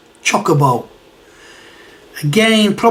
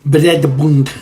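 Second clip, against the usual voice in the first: Bredebund in a playful Norwegian accent, rolled and laughing; Bredebund, light mock Norwegian accent with a laugh; 2 semitones lower than usual. Shown as a demonstration. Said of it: "said in a more Norwegian accent".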